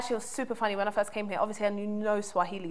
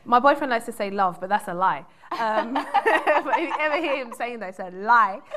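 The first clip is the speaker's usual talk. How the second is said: laughing; 2 semitones higher, 8 dB louder than usual. Real, not acted. Laughing about boyfriend's claim.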